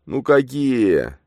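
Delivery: slow wheezing croak; a hoarse breathless question; hoarse wheeze. A narrator's reading. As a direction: rasp it out in shock. Bogdan wheezes.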